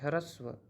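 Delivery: ह्रस्व said carefully and correctly; careful pronunciation. Shown as a demonstration. Teacher showing learners the correct pronunciation, careful ह्रस्व. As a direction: pronounce ह्रस्व with care, each sound distinct. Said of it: "शुद्ध उच्चारण भी करना है".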